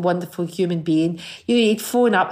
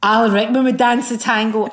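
raised, louder excited exclamation; excited group cry; 4 semitones higher, 4 dB louder than usual. Retold or imitated. The whole room excitedly proclaiming the answer. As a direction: announce it like a sudden revelation.

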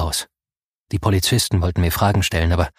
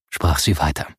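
usual speaking voice

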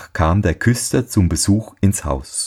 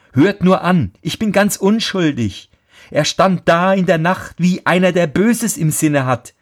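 much higher, earnest protest; pleading boy; 9 semitones higher than usual. A narrator's reading. Boy pleads with his scolding father, high and earnest. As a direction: plead your innocence.

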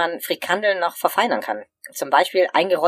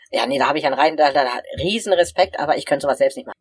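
talking with food in mouth; words round a bite of food; mouth full. Real, not acted. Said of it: "Mit vollem Mund spricht man übrigens nicht".

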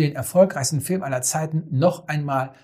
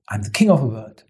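lower, understated quote; 5 semitones lower, faster than usual. Retold or imitated. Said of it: "genau so eine Haltung".

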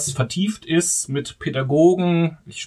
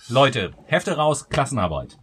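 strict teacher. Pretend. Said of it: "So geht das nämlich los".

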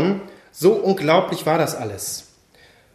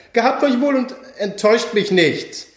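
less sweet, warning; 6 semitones higher than usual. Acted. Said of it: "Die letzten drei Worte klangen etwas weniger lieblich".

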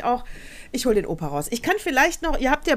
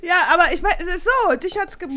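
laughing protest; 8 semitones higher, 4 dB louder than usual. Real, not acted. Defending herself, laughing.

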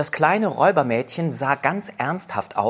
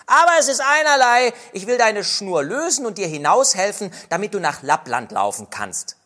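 put-on robber girl voice; 8 semitones higher than usual. Robber girl tells the reindeer to run to Lapland, higher and bold. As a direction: set the reindeer free boldly.

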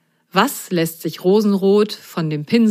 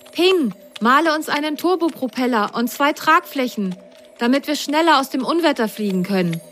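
high, hurried character voice; Grasgrün voice; 8 semitones higher than usual. Acted. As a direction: press for speed in a high voice. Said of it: "ertönte Grasgrüns Stimme".

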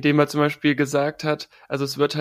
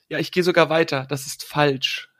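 „falsch“ langsam und betont; emphatic verdict. Retold or imitated. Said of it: "danach hat er noch gesagt". („falsch“ mit Nachdruck)

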